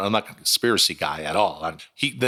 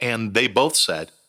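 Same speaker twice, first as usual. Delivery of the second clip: ordinary talk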